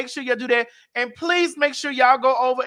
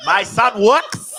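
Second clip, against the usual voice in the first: laughing shout; slower than usual. Real, not acted. Running joke shouted laughing.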